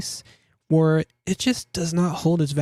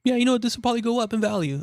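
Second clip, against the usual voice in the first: inner voice; 7 semitones higher, much faster than usual. Retold or imitated. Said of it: "I say to myself".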